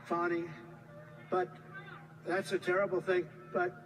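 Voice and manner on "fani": Fani as "Fah-nee", a little French touch; French-style FANI. Shown as a demonstration. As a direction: give Fani an open French "ah". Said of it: "a little French accent there".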